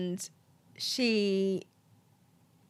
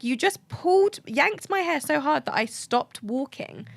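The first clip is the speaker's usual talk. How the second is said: higher-pitched retold indignation; indignant confrontation; 6 semitones higher than usual. Confronting a stranger who yanked her braid, indignant. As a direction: re-enact an incredulous telling-off. Retelling confronting hair-puller.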